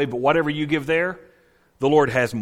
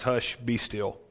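soft command; 2 semitones lower, 6 dB quieter, slower than usual. Retold or imitated. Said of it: "And then the Lord cries".

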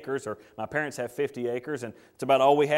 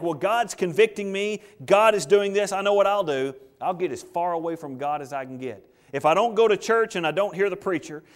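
scheming runaway; 3 semitones higher, 4 dB louder than usual. Acted. Acted sinner planning to run.

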